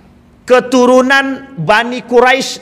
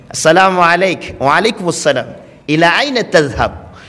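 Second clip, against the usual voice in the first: formal Arabic greeting; 5 semitones lower than usual. Shown as a demonstration. Demonstrating fluent formal Arabic.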